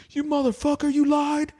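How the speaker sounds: imitating a worked-up friend, very high-pitched; mock outraged accusation. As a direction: accuse him in playful, high-pitched disbelief. Mock outrage from the hitting comic.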